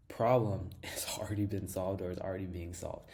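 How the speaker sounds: breathy whisper through a laugh; amused hushed aside. Real, not acted. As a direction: let a laugh slip into a whisper. Excited pitch about fast automation.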